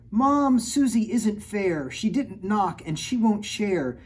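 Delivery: high, loud, slow whiny complaint; child crying out. Acted. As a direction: whine to Mom that sister isn't fair. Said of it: "I cried".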